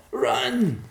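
high, loud, slow urgent shout; choked-out shout. A narrator's reading. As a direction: strain to warn her. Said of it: "Nicholas choked out".

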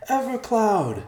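high anguished scream. A narrator's reading. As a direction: scream his name in horror. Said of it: "Yolana screamed".

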